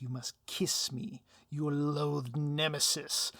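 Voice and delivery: slow, lightly smug villain; a hint of savoring the trap. Villain demands a kiss from the hero, slow and lightly smug.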